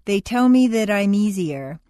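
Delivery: THAT I'M EASIER run together without breaks; linked words. Shown as a demonstration. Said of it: "like one long word".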